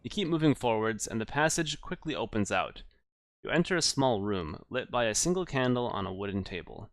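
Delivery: measured gamebook narration; story narration. Acted. Narrator describing a strange hillock to the player, story narration. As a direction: read the adventure out as storyteller.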